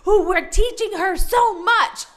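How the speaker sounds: mock kid voices, amused; imitating the kids cheering her Spanish; kids teasing. Kids teasing their teacher, a light mock voice. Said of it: "And they're like".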